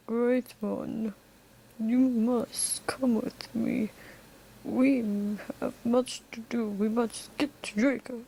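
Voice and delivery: measured, portentous character voice; white saber. Acted. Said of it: "then the white saber".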